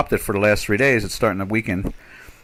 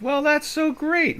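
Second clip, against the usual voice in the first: slow, high sarcastic praise; 3 dB quieter, slower than usual. Real, not acted. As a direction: sound sarcastically impressed. Mocks the slow rate hikes.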